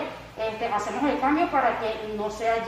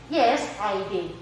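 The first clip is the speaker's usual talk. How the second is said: slow short answer; 3 semitones lower, slower than usual. Shown as a demonstration. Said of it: "Y me quedaría".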